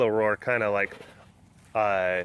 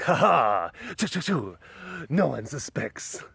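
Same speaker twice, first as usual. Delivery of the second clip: mock Zorro. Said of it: "like, Zorro move".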